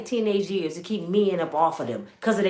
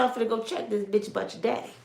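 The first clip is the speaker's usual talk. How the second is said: quiet menace; 7 dB quieter, faster than usual. Retold or imitated. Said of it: "She said".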